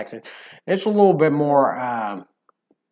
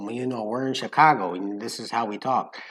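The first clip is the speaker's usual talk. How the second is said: lightly done Chicago accent; mild, soft Chicago accent; 4 semitones lower, 5 dB quieter than usual. Shown as a demonstration. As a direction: talk like a Chicago local, a bit low. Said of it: "goes into that Chicago accent".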